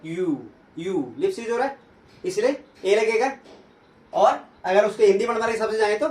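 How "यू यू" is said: "यू" drawn out and isolated, with rounded lips; lip-rounded "यू" sound. Shown as a demonstration. Teacher showing students lips are used, drawn-out sound. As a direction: stretch each "यू" on its own, lips pushed forward. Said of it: "देखिए lips use हो रहा है".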